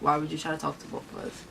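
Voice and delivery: fast whispered aside; quick hushed aside; whispering. Real, not acted. Whispered aside about sister.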